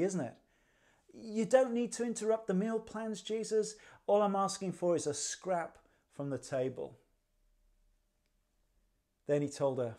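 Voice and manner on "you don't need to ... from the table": higher-pitched humble request, lightly acted; humble plea. Woman begging Jesus for help for her daughter, humbly. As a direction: imitate a humble woman asking for little. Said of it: "Her response is one of considerable humility".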